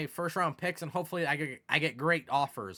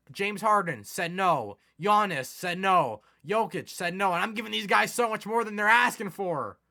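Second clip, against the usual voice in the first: frustrated; 4 semitones higher, 5 dB louder than usual. Real, not acted. Gamer lists every player who refused him, frustrated. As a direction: hammer each rejection.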